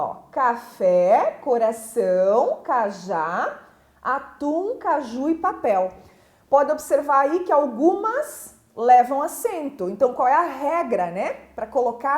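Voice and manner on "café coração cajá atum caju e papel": final syllable of each word drawn out, "Café" through "papel"; stress on last syllable. Shown as a demonstration. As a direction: lean on the last syllable of "Café", "coração", "cajá", "atum", "caju", "papel". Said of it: "É a última sílaba".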